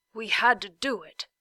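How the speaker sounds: a hint of a gruff dog character; lightly voiced dog. Talk the dog defending the blast, lightly voiced. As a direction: give the dog a slightly different voice.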